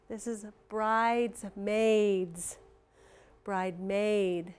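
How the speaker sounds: slow, careful "bridesmaids"; slow word model. Shown as a demonstration. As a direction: lean on the long A in bridesmaids. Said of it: "have the A I in them".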